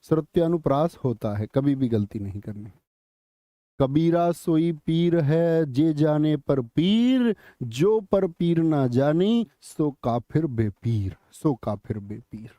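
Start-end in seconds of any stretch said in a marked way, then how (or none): 3.8-12.5 slow, drawn-out couplet, fading at the end; verse recitation. Acted. Teacher reciting Kabir's couplet for an exam question, slow recitation. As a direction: recite with long held vowels.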